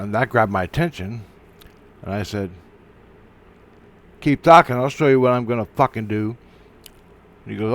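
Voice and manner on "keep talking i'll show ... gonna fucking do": angry threat. Retold or imitated. Acted quarrel, threat.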